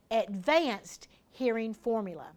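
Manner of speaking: measured, word-by-word for note-takers; slow dictation. Shown as a demonstration. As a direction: say it slowly to be written down. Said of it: "Now write this down".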